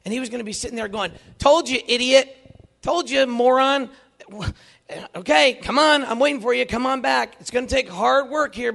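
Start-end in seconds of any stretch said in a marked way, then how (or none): 1.4-8.7 loud, high, taunting; mock scolding. Imagined Jesus taunts the returning sinner, loud mocking call. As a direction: jeer at him from far off, loud.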